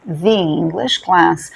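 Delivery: slow the English class, the as thee; thee before vowel. Shown as a demonstration. Teacher contrasting the before a vowel. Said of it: "Porque English".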